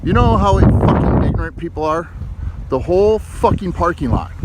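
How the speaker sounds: loud swearing, real exasperation; angry shouting in the parking lot; furious rant. Real, not acted. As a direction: vent real fury at the careless driver. Ranting over car parked beside his.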